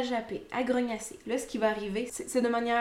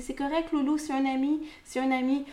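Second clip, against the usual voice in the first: lightly acted reassurance, a little higher; reassuring owner; 4 semitones higher than usual. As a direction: gently soothe a nervous dog, slightly raised pitch. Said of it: "nous, on veut le rassurer". (ton rassurant de maître à son chien)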